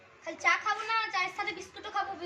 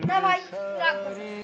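insistent shout. Acted. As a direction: shout him down to prove he'll get angry. Friends teasing about getting angry.

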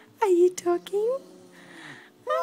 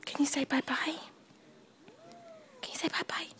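hushed invitation to an infant to speak; gentle prompting; 2 semitones higher, 12 dB quieter, much faster than usual. Real, not acted.

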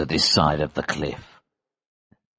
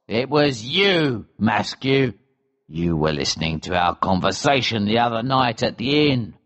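angry accusation. A narrator's reading. Elsevier accuses Mascu of betrayal, controlled anger. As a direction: accuse him, drawing out the words. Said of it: "cried Elsevier angrily".

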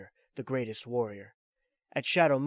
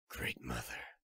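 put-on much lower, a weary old soldier; Snake's voice; 12 semitones lower, 10 dB quieter, slower than usual. Old soldier explains his pursuit to Drebin, low and weary. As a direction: drop into the tired veteran's low voice.

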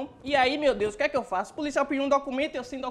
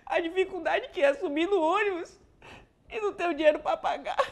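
mild fake crying; 5 semitones higher than usual. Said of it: "Dá uma de ator".

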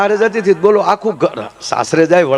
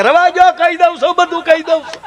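much higher, squeaky voice of a scared man; panicked confession; 13 semitones higher than usual. Retold or imitated. Frightened prisoner begging the officer to stop, high panicked confession. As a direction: blurt it out like a terrified prisoner.

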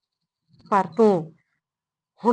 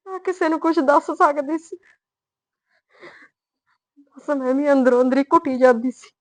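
higher and louder, grief spilling over; anguished outburst; 5 semitones higher, 4 dB louder than usual. Acted. Mother pouring out years of hidden grief to her daughter, anguished. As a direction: cry out the pain you kept inside.

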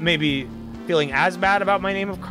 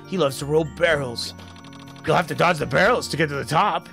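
put-on old grandpa voice; 2 semitones lower than usual. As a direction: explain it like a kindly grandpa. Voicing old game NPC.

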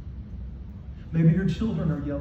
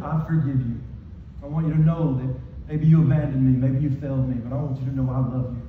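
low, tender reassurance; loving forgiveness; 5 semitones lower than usual. Acted. Jesus reassuring disciples who abandoned him, forgiving. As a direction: forgive them in a low, even voice. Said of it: "showing them that he loves them".

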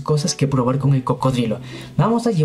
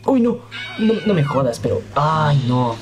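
startled. Real, not acted. Crocodile surprises him from behind.

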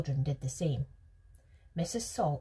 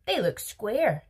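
higher, louder contradiction; insistent objection; 5 semitones higher, 6 dB louder, slower than usual. A narrator's reading. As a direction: object firmly, stretching it out. Veruca contradicts Wonka in a quarrel.

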